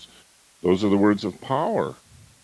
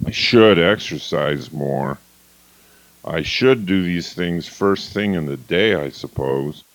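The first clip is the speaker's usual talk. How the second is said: drained should; 4 semitones lower than usual. Shown as a demonstration. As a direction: let it deflate toward the end. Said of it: "this whole matter of should".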